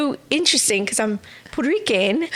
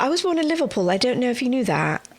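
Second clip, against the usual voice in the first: put-on playful Scouse accent, a touch fast; Liverpool accent; faster than usual. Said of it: "sorry if this Liverpool accent is not correct".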